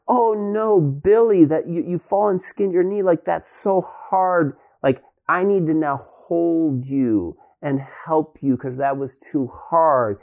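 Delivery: mock coddling parent. Parent pitying the boy who skinned his knee, slow mock coo. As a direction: overdo the sympathy like a fussing parent.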